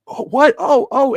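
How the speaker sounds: high, loud cartoonish wrestler gasp; cartoony Cena. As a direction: ham it up like a cartoon hero. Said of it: "The cartoony, the cartoony persona".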